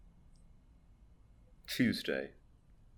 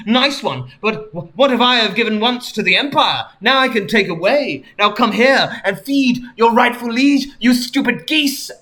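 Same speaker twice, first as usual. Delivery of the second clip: mock regal Queen; 4 semitones higher than usual. Queen voiced in fanfic.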